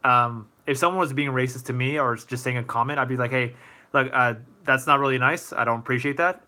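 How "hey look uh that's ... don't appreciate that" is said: calm, even request. Shown as a demonstration. Streamer models a reply to a racist comment, calmly. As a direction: set a boundary without heat. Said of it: "in a calm voice, just like I'm doing right now".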